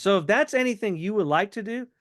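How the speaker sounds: light, no-pressure offer; offhanded offer. Shown as a demonstration. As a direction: leave the door open casually. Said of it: "so now do you hear my tone of voice?".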